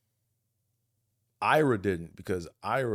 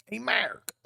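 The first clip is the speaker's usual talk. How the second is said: "Mark" called out, higher each time with a hard R; Buffalo calling Mark; 14 semitones higher, much slower than usual. Retold or imitated. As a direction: call Mark across the tailgate, rising. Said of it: "they be saying".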